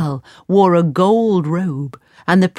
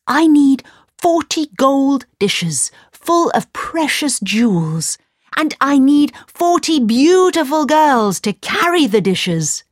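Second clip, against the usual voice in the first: higher, louder eager orders; commanding Aladdin; 9 semitones higher, 3 dB louder than usual. A narrator's reading. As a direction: demand the treasure boldly.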